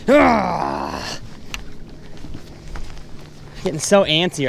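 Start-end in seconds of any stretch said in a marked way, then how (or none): 0.1-1.2 loud exasperated "aah"; frustrated cry. Real, not acted. Angler with no fish on the hook, frustrated cry. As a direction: let out a long falling yell.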